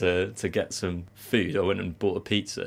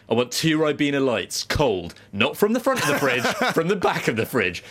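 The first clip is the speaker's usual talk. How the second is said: raised, emphatic list of orders; mock demanding; 4 semitones higher than usual. Co-host mimicking friend's shopping demands, mock demanding. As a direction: imitate a fussy customer laying down terms. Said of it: "really long list of demands".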